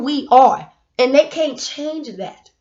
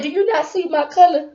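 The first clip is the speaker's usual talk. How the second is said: sassy retort; 5 semitones higher than usual. Retold or imitated. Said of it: "'Cause I said".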